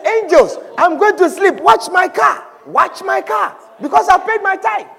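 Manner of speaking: commanding. Acted. Tither orders angels to guard car.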